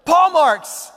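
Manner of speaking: high-pitched excited little voice; excited squeal. A narrator's reading. Piglet finds paw marks, high excited squeal. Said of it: "exciting squeal of excitement".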